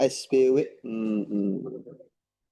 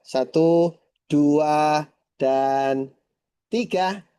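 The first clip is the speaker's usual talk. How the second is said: excited countdown; 3 semitones higher, much slower than usual. Real, not acted. Photo countdown to camera.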